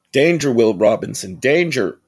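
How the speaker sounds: loud mechanical robot warning; robot alarm warning. Retold or imitated. Vlogger imitating the robot's warning to the boy, loud and alarmed.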